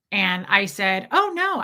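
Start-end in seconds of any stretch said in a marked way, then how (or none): 1.1-1.6 high-pitched mock reassurance; mock him with a raised voice; sarcastic, exaggerated high lilt. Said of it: "I was mocking him".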